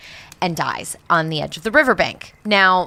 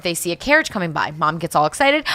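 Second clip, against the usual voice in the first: ordinary talk, nothing marked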